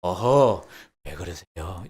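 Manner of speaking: gentle, smiling and soft, trailing off quietly; a kind nudge, never annoyed; soft smiling rebuke. Shown as a demonstration. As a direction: say it softly with a smile so it never stings. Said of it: "부드럽게 ... 이렇게 웃으면서".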